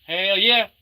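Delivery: high loud hell yeah; hyped shout. Acted. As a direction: yell it like a hype bro. Hype catchphrase again.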